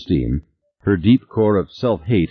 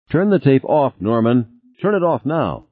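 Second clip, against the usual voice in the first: higher, tense order; losing calm; 7 semitones higher than usual. Acted. Beth orders Norman to stop the tape, tense. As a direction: clamp down, calm slipping away. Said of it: "She didn't sound so calm anymore".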